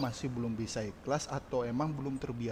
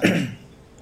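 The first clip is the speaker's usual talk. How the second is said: coughing fit; throat clearing; 2 semitones higher, 8 dB louder than usual. Real, not acted. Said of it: "Aku batu emang karena". (batuk berdeham)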